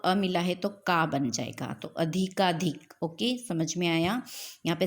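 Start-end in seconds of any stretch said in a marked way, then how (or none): 1.9-2.9 अधिकाधिक said slowly, syllable by syllable; teacher slowing down अधिकाधिक so students hear the long का; slow pronunciation demo. Shown as a demonstration. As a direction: spell out अधिकाधिक slowly for the class. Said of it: "इसका pronunciation क्या हो जाएगा".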